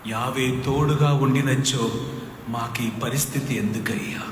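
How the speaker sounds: Gideon's lament. Acted. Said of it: "Gideon అక్కడ ఏడుస్తున్నారు".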